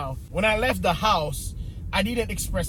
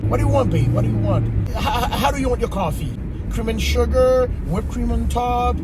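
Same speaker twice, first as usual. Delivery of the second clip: overly nice; 2 semitones higher, 3 dB louder than usual. Retold or imitated. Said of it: "I was very nice".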